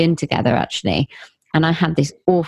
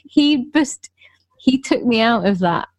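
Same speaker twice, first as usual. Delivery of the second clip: whisper; 5 semitones higher than usual. Real, not acted. Whispered aside in story.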